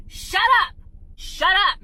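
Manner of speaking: high, loud furious shut up; angry shout. Real, not acted. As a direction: yell it at them in real anger. Ranting at critics, telling them off.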